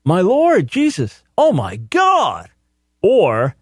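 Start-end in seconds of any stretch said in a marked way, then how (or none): 0.0-2.5 much higher, slow mock cry of "oh my God"; mock exclamation. Mocking the cult reading of Thomas, high and drawn out. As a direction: parody the misreading as a shocked oath. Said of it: "does not mean".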